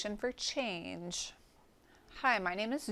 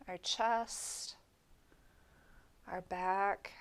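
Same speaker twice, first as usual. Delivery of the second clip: guided meditation. Acted. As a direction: guide them gently through the body, leaving space after each part. Leads a body scan meditation.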